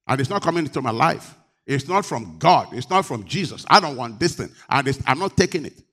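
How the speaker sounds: fast, firm no to what isn't sent; strong refusal, said fast. Shown as a demonstration. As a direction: refuse it flatly and quickly. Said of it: "you need to be strong and say".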